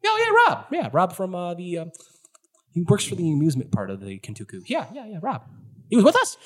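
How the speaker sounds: Monica suddenly remembers her friend and frets; anxious recognition. Acted. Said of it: "And Monica goes".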